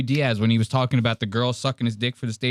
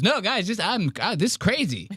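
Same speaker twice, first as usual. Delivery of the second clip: 1 mock panicked Mark; 8 semitones higher than usual. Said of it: "He goes".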